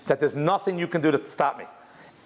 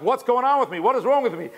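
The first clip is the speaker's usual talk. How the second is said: higher-pitched, imitated bafflement; bewildered; 6 semitones higher than usual. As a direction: voice a man baffled by his own tears. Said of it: "he's bewildered why he's crying".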